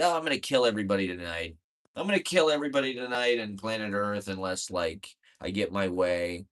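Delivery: fast, lightly voiced whiny old man ranting; mock a spoiled old man throwing a tantrum; mock Trump rant. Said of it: "It's like".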